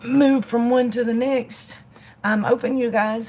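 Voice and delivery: talking around a lit cigarette; words slurred by a cigarette in mouth. Real, not acted. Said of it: "light my cigarette and move".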